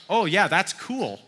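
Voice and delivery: slow, drawn-out mock-hip parent; parents trying cool. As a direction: imitate a parent trying too hard with slang. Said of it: "don't have to say it like that".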